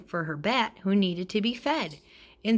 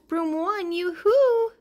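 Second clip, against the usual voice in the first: much higher, sing-song yoo-hoo call; high witchy call, yoo-hoo swooping up; 11 semitones higher, 5 dB louder, slower than usual. A narrator's reading. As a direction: hail the broom from afar, high and carrying. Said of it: "Cried Witchy Woo".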